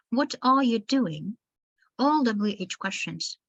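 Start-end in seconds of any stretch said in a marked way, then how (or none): 0.1-1.4 unhurried question falling on "doing"; slow, with pitch dropping at the end on "doing". Shown as a demonstration. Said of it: "the intonation falls coming to the end".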